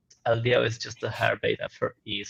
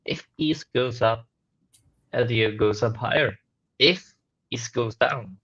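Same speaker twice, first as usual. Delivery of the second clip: usual speaking voice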